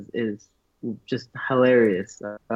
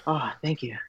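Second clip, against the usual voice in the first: dry, flat sarcastic oh thank you; mock-grateful to a friend's blunt verdict; 5 dB quieter than usual. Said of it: "I was just like".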